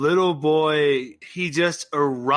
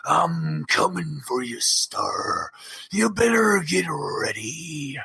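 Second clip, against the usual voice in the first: barbarian; slower than usual. Acted. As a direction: growl the threat slowly. Champion threatens challenger.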